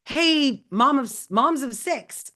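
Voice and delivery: hammed-up call to an audience; mock scream. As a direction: call out moms of six, drawn out. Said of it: "if they scream like".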